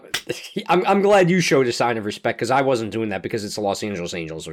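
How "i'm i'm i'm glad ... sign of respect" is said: laughing. Real, not acted. Laughs at Tony's salute.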